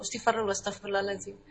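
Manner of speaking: soft istighfar. Shown as a demonstration. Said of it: "Sudah istighfar".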